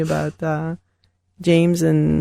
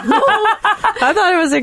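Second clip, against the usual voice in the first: laughing; 11 semitones higher, slower than usual. Real, not acted. Laughing at own mistake.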